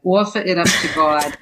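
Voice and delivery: lightly imitated Jersey accent; broad Jersey vowels, imitating a mother; mother's Jersey accent. Author reading her chapter title as her mother said it, Jersey accent. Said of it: "say it in my mother's Jersey accent".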